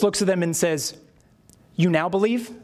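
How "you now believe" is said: mildly challenging, rising question; ironic confrontation. Acted. Jesus answering the disciples, mildly confrontational. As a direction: question it back at them, lightly ironic. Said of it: "because it's ironic, it sort of takes this kind of a".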